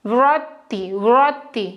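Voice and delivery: व्रति with the r sound clearly heard; clear pronunciation demo. Shown as a demonstration. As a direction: model the sound for students. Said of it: "उच्चारण से देखो".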